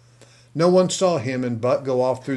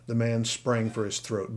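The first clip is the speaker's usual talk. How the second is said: plain reading voice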